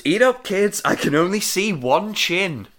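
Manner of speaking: gloating witch offering food. Retold or imitated. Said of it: "line from the witch goes".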